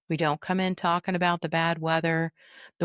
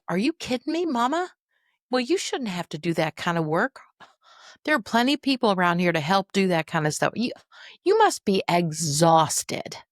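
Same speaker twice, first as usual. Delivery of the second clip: validating sympathy; 3 dB louder than usual. Shown as a demonstration. Daughter validating her upset mother, sympathetic. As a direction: take her side completely, soothing her. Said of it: "I worked on my validation".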